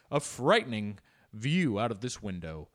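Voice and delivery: lightly voiced 1940s reporter; a hint of a newsreel announcer; mock vintage news voice; old-time newsreader. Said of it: "the voices of the journalists".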